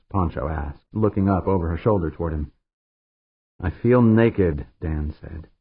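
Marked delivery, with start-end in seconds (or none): 3.6-4.7 very slow, deliberate. Acted. Dan explaining to Pancho, very slowly. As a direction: draw each word out.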